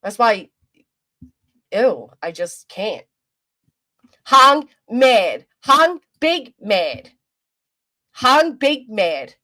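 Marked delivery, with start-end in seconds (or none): 4.3-9.3 slow, dumb caveman talk, words dragged out; mock him like a grunting caveman. Mocking a man she dislikes in slow caveman talk.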